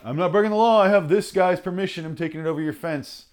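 high, loud mocking voice of a smug snooper; sneering high parody of the guy over the fence; mocking the peeper. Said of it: "and it's like".

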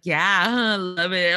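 innocent giggly lie; laughing fib. Retold or imitated. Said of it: "I'd be like".

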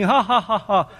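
lightly imitated jolly ha-ha-ha; mock laughing. Preacher mimics the laughing Jesus of popular pictures, mock laugh. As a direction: put on a little spoken laugh. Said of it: "he's laughing".

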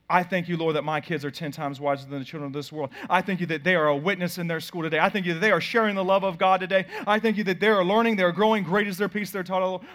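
confident declaring prayer, building. Shown as a demonstration. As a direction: pray it out with expectation. Expectant prayer demo.

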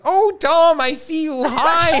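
high, loud call across the river; calling from far away. Retold or imitated. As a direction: shout and wave from far off. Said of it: "he's like".

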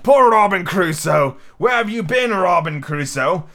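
lightly voiced talking parrot; parrot's call. A narrator's reading. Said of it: "it was like the parrot".

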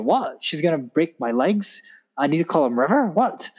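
mildly baffled "what?", questions rising at the ends; retold confusion. Guest imitating head teacher reacting to nanny's threat, mild confusion. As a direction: play a puzzled head teacher, lightly. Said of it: "she was just confused".

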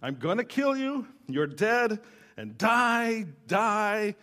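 a retold death threat, shouted up high; retold yelling threat. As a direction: act out the angry man shouting, half-strength. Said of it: "there was a man yelling".

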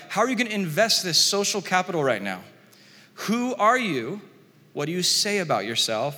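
mock-impatient leaders pushing for an answer; frustrated demand. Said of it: "And then they get frustrated".

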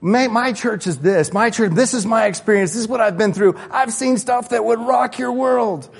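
mock bragging. Mocking proud believer.

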